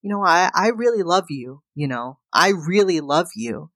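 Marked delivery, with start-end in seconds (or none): 1.8-3.7 whispered, tearful repeat of the confession. Retold or imitated. Husband to wife, tearful, repeating in a whisper. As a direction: breathe it as a whisper, close to tears.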